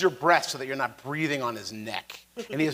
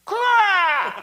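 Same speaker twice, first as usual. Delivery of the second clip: high, loud raven squawk; raven's caw; 5 dB louder than usual. Acted. Game master caws for the player's raven signal, high raven screech. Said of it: "I do the Raven's Claw".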